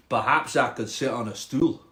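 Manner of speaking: tentative Scottish frog. Acted. Frog trying a stool on the cat, Scottish accent. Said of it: "a Scottish frog".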